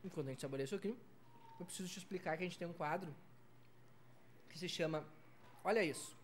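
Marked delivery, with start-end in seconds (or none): 0.1-5.1 talking while chewing; mouth full. Real, not acted. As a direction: speak through a mouthful of pizza. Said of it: "falar de boca cheia".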